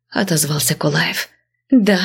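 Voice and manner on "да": mocking drawl. A narrator's reading. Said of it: "издевательски протянула она".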